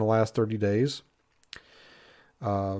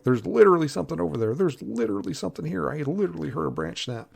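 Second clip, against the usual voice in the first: mimicking Guy; 5 semitones higher, faster than usual. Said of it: "intent on saying that word".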